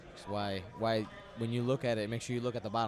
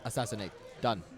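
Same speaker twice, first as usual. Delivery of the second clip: hammy mock Australian accent; bad Australian accent. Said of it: "That's a really bad Australian accent".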